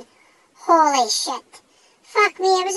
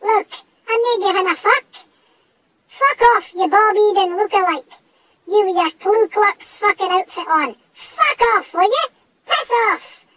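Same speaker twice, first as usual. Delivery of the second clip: high, loud, ragged yelling; all-out raging tirade; furious screaming; 3 semitones higher, 4 dB louder than usual. Acted. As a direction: scream the ghost out of the house. Screaming at the ghost.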